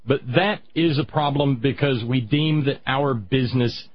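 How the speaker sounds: "business" given deliberate emphasis; stress on business. Real, not acted. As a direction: lean on the word "business". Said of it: "emphasis on the word business".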